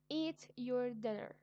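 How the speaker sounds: put-on loud, slow, firm order to a child; slow, loud command. Shown as a demonstration. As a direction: tell them to eat, no arguing. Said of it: "It is an order".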